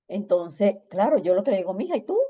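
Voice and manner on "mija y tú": high, light hello; high-pitched friendly check-in, imitated; casual greeting. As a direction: toss it out as a greeting. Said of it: "como un saludo".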